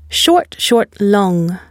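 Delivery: two brief "Short, short", then stressed "long"; quick "Short, short", drawn-out "long"; stress pattern demo. Shown as a demonstration. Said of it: "only one long and stressed syllable".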